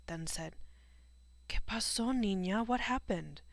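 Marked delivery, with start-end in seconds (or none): 1.5-3.4 higher, louder, alarmed questions; urgently ask, taken aback; shocked questioning. A narrator's reading. Shocked neighbour asks the girl what happened, alarmed.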